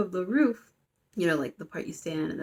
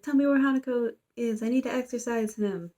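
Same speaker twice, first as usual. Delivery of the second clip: demanding yell; 5 semitones higher than usual. Retold or imitated. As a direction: push the demand up in pitch like a retold yell. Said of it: "we see this guy yelling".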